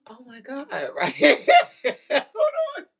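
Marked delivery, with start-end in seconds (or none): 0.1-0.7 high mock gasp, laughter creeping in; imitated shocked child. Child watching the parent hang up, hammed-up shocked gasp. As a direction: play a scandalized child. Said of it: "my child's like".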